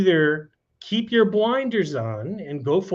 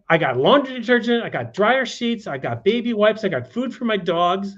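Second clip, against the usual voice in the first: quick, higher-pitched happy listing; retold delight; 4 semitones higher than usual. Retelling a homeless woman counting her jackpot, delighted. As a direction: rattle off the haul as she did, pitched up.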